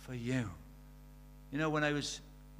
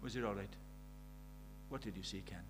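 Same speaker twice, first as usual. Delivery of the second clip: soft, hushed mock whisper, voice kept low; retold whisper; 8 semitones lower, 11 dB quieter than usual. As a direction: hush it as if only Ken should hear. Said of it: "she whispers to Ken".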